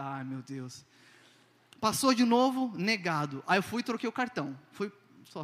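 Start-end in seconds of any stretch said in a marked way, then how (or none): 0.0-0.9 despairing groan. Retold or imitated. Card declined.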